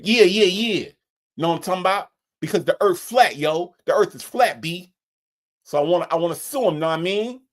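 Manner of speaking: client cutting in on the lawyer; eager client. Acted. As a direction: jump in and insist as a silly client. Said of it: "the look on the lawyer's face".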